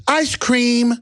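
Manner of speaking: put-on harmless old man. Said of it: "And he goes".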